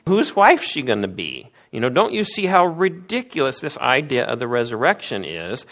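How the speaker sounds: hammed-up derisive challenge; mocking sneer. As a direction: ridicule the idea like a smug skeptic. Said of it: "you can almost hear the tone of voice".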